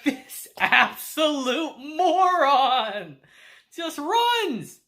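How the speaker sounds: slow, cracking up mid-insult; laughing insult. Real, not acted. Reviewer mocking the fleeing uncle, laughing. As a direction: drag it out through laughter.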